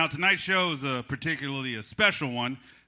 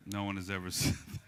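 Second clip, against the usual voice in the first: laughing; 5 semitones lower, 4 dB quieter than usual. Real, not acted. Cracks up repeating audience's line.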